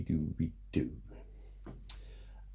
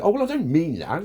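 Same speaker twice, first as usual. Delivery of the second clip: whiny backpedal; 7 semitones higher, 5 dB louder than usual. Retold or imitated. Mocking people backing down.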